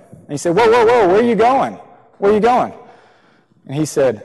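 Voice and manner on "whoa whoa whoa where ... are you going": calling out after someone. Retold or imitated. Preacher calls after leaving man.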